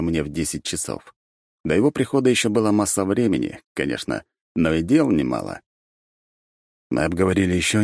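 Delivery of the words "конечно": usual speaking voice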